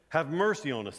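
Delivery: loud retold plea; calling out. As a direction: call out loudly like a beggar in the street. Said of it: "these two blind guys calling".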